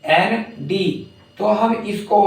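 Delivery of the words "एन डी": letters spelled out slowly; drawn-out spelling of एन डी. Shown as a demonstration. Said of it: "I plus".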